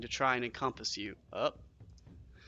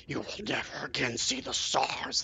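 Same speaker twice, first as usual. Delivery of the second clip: lightly voiced cold rock serpent; a hint of a merciless stone beast; pitiless serpent. A narrator's reading. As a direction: declare it without compassion. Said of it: "declares without compassion".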